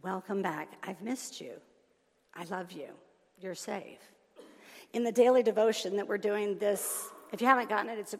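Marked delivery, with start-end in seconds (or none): 0.0-4.1 tender reassurance. Acted. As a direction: reassure someone held in a tight embrace. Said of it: "pulls us tight, and says".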